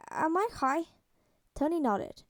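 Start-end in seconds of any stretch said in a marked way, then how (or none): 0.1-0.8 put-on dopey drugged boy.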